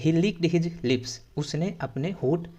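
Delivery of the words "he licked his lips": very slow, each word stretched; slow model reading. Shown as a demonstration. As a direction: model it slowly before translating. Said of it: "तो हिंदी में जब कर बोलेंगे". (धीमे-धीमे बोलकर दिखाना)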